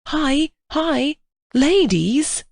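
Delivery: high, loud urgent yell; yelled warning. A narrator's reading. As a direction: shout a warning through the trees.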